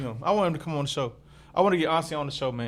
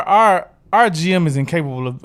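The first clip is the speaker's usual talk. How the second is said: ordinary talk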